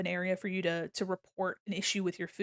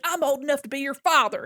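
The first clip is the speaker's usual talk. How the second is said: imitating an indignant customer; 5 semitones higher, 7 dB louder than usual. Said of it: "And he's like".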